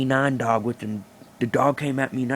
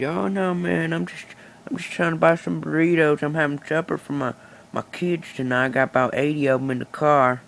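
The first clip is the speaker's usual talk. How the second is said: a hint of a nervous shopper, pitched higher; higher, apologetic little voice for the other guy; lightly voiced Mexican shopper; 3 semitones higher than usual.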